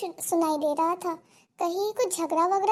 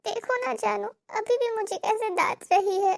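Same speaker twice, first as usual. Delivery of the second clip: whiny complaint. Acted. बहू पति से शिकायत.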